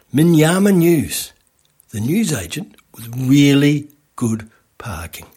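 slow, deliberate slogan read; ad tagline. Shown as a demonstration. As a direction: announce it like an ad tagline. Unveiling the ad's slogan.

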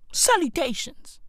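a prissy high salutations; mock salutation. Comic greeting the parents with a high mock salutations.

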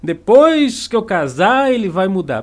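slow, sing-song hopeful promise; a lightly voiced naive bride; mock naive hope. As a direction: parody a bride sure he'll change. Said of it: "Já ouviu essa".

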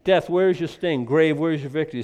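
a hint of trash talk in scripture; taunting death. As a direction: throw the question in death's face. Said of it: "'cause I like trash talk".

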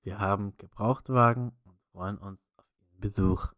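flat car dealer radio spot; monotone ad voice. Retold or imitated. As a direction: read it like a dull used-car ad. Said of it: "richtig monoton in der Scheißstimme".

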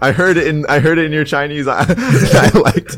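high, laughing mock-creepy voice, half-joking; creepy stalker. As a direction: play a giggly know-it-all stalker. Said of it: "They're like".

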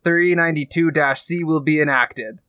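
flat computer announcement voice; robot voice. Acted. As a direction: read it like a ship's AI. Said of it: "a robotic voice goes over the comm saying".

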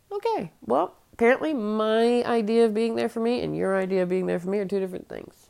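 a real fed-up outburst, loud and high; fed-up retort. Real, not acted. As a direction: snap back at the friends who say they care. Angry retort to friends.

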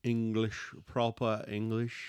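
put-on playful proper English accent; British accent. Showing his co-host proper English, British accent. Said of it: "You gave me a little taste".

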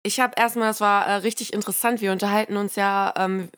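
speaking with a bit of a cold; slightly blocked nose, tired voice; stuffy nose. Real, not acted. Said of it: "hört man's auch ein bisschen".

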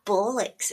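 "bollocks" with a drawn-out nasal first vowel; nasal pronunciation. Retold or imitated.

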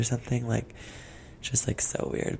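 hushed gossip; whispering. Real, not acted. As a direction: secret whisper. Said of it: "we're gonna whisper this whole time".

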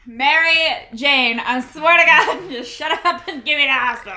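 hammed-up fed-up patient; mock exasperation. Wounded man snapping at his cousin, mock exasperation. Acts out wounded man's retort.

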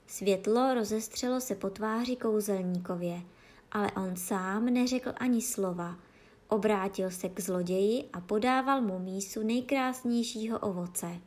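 usual speaking voice

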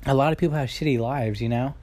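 slightly slurred speech with a retainer in; talking around a dental retainer; wearing a retainer. Real, not acted. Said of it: "if I'm not talking clearly, it's because of my, my retainers in".

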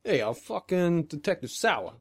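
lightly drawn-out New York cop voice. Acted. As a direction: introduce yourself slowly as a New York cop. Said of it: "you could be a New York cop".

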